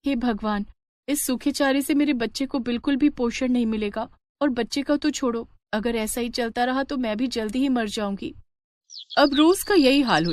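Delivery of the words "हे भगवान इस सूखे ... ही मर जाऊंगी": a pregnant cow despairing to herself, a touch higher; worried cow. Acted. Cow Gaura worried about her calf.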